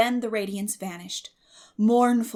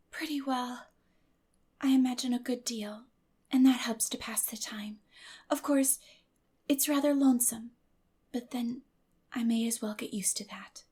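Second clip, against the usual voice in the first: put-on higher, brave little girl's voice; a lonely girl putting on a brave face; Anne, wan and lonely; 4 semitones higher than usual. Anne's voice in the story.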